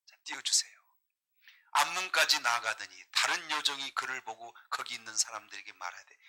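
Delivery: ordinary talk, nothing marked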